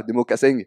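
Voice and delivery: "mocassins" ending in a hard southern -eng; loud "mocassins", final vowel closed with an added ng; nasal ending with G. Shown as a demonstration. Southerner showing the added G, "mocassins" said as mocasseng. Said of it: "ça rajoute un G après".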